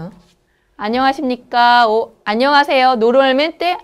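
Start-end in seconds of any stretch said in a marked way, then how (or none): 0.8-3.0 안녕하십니까 then 안녕하세요, quick and crisp; bow-like formal hello, brisk; formal Korean greeting. Shown as a demonstration. Teacher showing Spanish speakers a polite Korean greeting. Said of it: "primera palabra es como esto".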